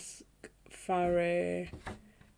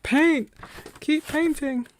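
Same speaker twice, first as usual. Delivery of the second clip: self-urging; 9 semitones higher, 7 dB louder, slower than usual. Retold or imitated. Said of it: "was quite literally like".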